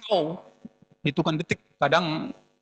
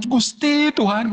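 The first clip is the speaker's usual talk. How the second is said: louder, slow, anguished plea to God; crying out to God; 4 semitones higher, 4 dB louder, slower than usual. Retold or imitated. Weeping believer crying out to God, loud and slow. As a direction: cry the name out like a desperate prayer. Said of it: "air matanya keluar".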